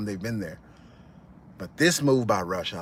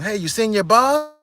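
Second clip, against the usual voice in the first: higher, louder casual probe; sly question; 9 semitones higher, 4 dB louder than usual. Retold or imitated. A thug questioning the cousin, higher sly voice. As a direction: ask innocently with a trap in it. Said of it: "the guy asked".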